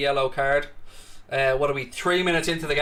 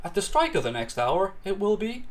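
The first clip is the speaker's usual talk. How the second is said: talking clock; 4 dB quieter than usual. Pretend. Streamer threatening an annoying viewer, mock talking-clock voice. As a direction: announce the time like a talking clock, slowing at the end. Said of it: "I'll become a talking clock".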